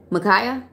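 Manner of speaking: Makaya said muh-KAI-uh with a questioning rise; checking the right way to say Makaya; corrected Makaya. Shown as a demonstration. Streamer checks the corrected name with the viewer, questioning. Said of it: "So I'm supposed to be saying Makaya".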